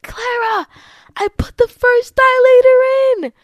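very high, loud mock squeal; retold excited squeal. Telling her sister about a first success, excited high squeal. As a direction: squeal the big news, imitating yourself on the phone.

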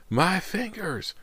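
very high, long drawn-out wail; trapped-animal wail. A narrator's reading. Injured Anthony wails over his mangled hand, drawn-out animal wail. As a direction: stretch it into a piercing wail of pain. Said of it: "wails of a trapped animal".

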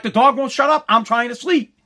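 mildly exasperated complaint. Retold or imitated. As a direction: complain like someone kept from sleep. Acted quarrel with woken wife.

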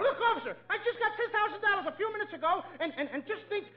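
high and quick with laughter; laughing excitedly. Acted. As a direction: gush through giggles.

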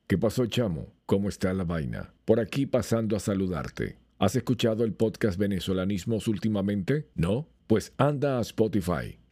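even, unhurried read with little lift; the AI clone's version, steady and level; cloned voice take. Shown as a demonstration. Speaker plays his cloned voice for comparison, even and level. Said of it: "y escuchen este".

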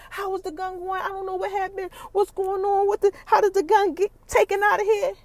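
high, rising panicked questions; frantic confusion. Retold or imitated. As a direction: Tasha hunting for the missing gun. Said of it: "She trying to figure out".

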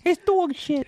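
put-on very high child voice; kid voice. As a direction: squeak it like a little kid. Voicing the kid again.

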